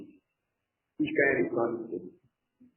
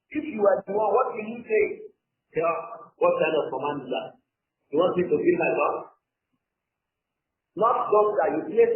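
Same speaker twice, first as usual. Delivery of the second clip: incredulous; 5 semitones higher than usual. Acted. Dramatizing Allah's command to Musa's mother.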